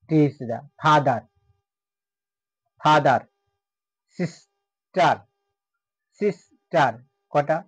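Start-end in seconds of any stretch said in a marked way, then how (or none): 0.8-6.9 "ফাদার" and "সিস্টার" broken into syllables with a pause between. Shown as a demonstration. Teacher showing students where syllables divide, syllable by syllable. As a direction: split "সিস্টার" after the first syllable, each part separate. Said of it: "যতটুকু উচ্চারণ হবে".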